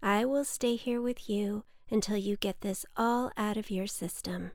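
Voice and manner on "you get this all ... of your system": ordinary delivery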